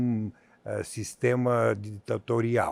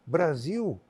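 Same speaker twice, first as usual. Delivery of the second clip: higher, mock-incredulous quote of doubters; incredulous Europeans; 5 semitones higher than usual. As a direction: play the baffled friends in Europe. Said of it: "eu dizia". (imitando europeus incrédulos, voz mais aguda)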